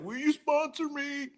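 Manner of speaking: mock squeaky plea; sheepish high ask. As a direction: ask it small and hopeful. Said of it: "I was like".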